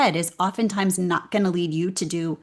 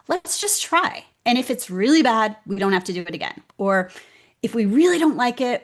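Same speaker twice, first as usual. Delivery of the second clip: encouraging pep talk; 2 semitones higher than usual. Retold or imitated. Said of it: "I talk to myself like that".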